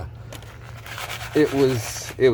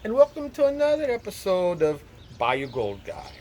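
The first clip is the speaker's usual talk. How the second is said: high, hammed-up Irish accent; cheery leprechaun-style Irish accent, pitched up; 10 semitones higher than usual. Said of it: "I haven't tried to do an Irish accent in a long time".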